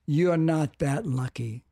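slow, calm retold reply. Mentor reassures him about being thrown out, calm. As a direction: say it slowly and evenly, quoting a calm adviser. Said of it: "looked at me very calmly and said".

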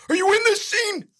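gruff, strained interrogating bellow; Alan Graff. Acted. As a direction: grill the newcomer in a chewed-nails voice. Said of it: "And he goes".

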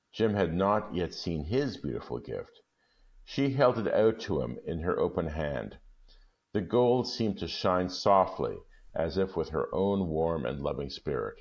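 measured storytelling read; calm storybook reading; story narration. A narrator's reading. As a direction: tell it gently, like reading a classic aloud. Reads the story aloud.

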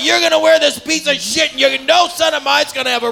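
insistent father. Acted. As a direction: overrule the child as a comic father. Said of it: "And the father's like".

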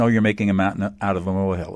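quick, mocking brush-off; dismissive brush-off. Mocking a person who dismisses your feelings, quick and offhand. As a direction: rattle it off like someone waving feelings away. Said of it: "the typical emotional invalidation".

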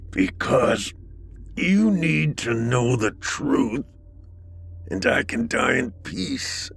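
strained, forced through gritted teeth; gritted teeth, high and tense. Acted. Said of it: "Through gritted teeth".

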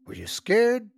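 put-on curious little boy. A narrator's reading. Boy asking his father.

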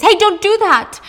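sharp high scream to stop her; mom screams. Retold or imitated. Mother screaming as Diana slashes the bags, high shriek. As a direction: yell at her daughter to stop now. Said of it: "her mom screams".

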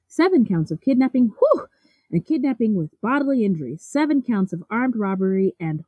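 rattled off without a breath, running out of air; reading a long list on one breath until winded; all in one breath. Real, not acted. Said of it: "I'm out of breath".

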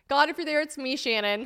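high-pitched parody of a plea; mock prayer. Joking about her own journal prayer, high mock plea.

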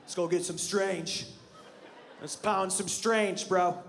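slow, lazy dude-bro drawl; bro talk. Retold or imitated. Comic mimicking how guys talk, slow bro voice. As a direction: ham up the frat bro. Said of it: "That's how guys talk".

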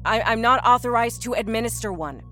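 strained nurse's restraint; through gritted teeth. A narrator's reading. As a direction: hold back frustration as you explain. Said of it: "answered through gritted teeth".

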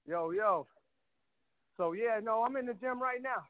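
out of breath from the gym; slightly winded, catching breath. Real, not acted. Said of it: "That's why I'm out of breath".

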